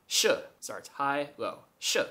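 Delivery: "sh" falling from high to low; first tone sh. Shown as a demonstration. Teaching the first tone: "sh" falling high to low. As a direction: drop "sh" from a high start down low. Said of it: "the tone goes high to low".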